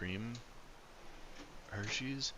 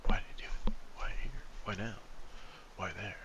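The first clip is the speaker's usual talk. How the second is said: mock conspiracy theorist.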